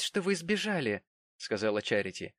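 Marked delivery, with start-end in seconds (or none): 0.0-1.0 put-on young lady's voice. A narrator's reading. Charity speaks.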